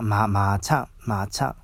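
measured repetitions of まー building into まーちゃん; nickname intonation demo. Shown as a demonstration. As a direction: repeat まー, then まーちゃん, to show the tune. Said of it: "イントネーションが違うんですよ".

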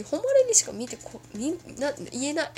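stumbling over the words; tripping over her tongue; tongue-tied. Real, not acted. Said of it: "もう口もまめらんくなってきた。".

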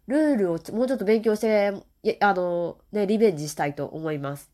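stuffy nose from a cold; blocked nose, talking through it; nasal voice. Real, not acted. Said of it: "だんだん鼻声になってまいりましたので".

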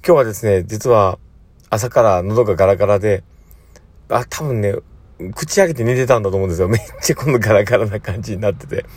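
raspy morning throat; hoarse voice. Real, not acted. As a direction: talk through a rough, hoarse throat.

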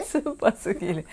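talking while eating a sour umeboshi. Real, not acted. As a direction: mouth full of sour pickled plum. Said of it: "あー、酸っぱすぎる？".

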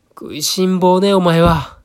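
high, loud scolding mother bird; a mother bird chiding her chick, scolding. A narrator's reading. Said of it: "お母さん鳥はひな鳥を叱りました".

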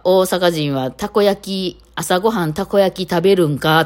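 outsider lightly trying on Kansai dialect, slowly at first; imitated Kansai dialect. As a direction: mimic a non-local's careful Kansai dialect. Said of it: "関西以外の方が関西弁で喋りかけてくれたり". (よそ者の関西弁を軽く真似て)

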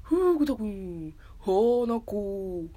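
drawn-out, half-successful character impression; attempted Wakamoto. Streamer retrying a voice actor impression, drawn out. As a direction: roll out long, exaggerated vowels. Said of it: "若本さん声出るかな".

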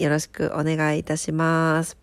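stuffy nasal voice; blocked nose. Real, not acted. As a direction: speak with a congested nose. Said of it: "そんな鼻声の夜".

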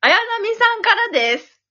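big, high announcer delivery; loud, spirited letter reading; too-loud reading. Pretend. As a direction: belt out the letter's introduction with pep. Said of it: "声でかいんだよ".

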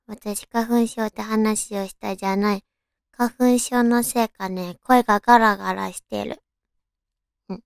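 raspy from hay fever; a scratchy, hoarse voice. Real, not acted.

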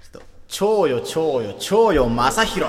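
cutesy begging. Pretend. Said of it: "もうちょいおねだり".

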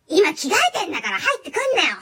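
half-laughing mock shout of 入ってくんなよ; loud flustered excuse yelled at mom; mock angry yell. Caught customer yells at his mother, laughing and loud. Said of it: "言ってて".

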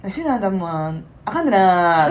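loud nosy osaka auntie. Retold or imitated. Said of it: "ちょっと柔らかい感じで".

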